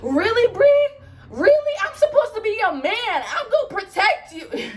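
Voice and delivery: high-pitched indignant yelling, played up; hammed-up screamed protest; mock screaming. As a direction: imitate him yelling in a high, loud, outraged voice. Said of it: "he's screaming and he's yelling".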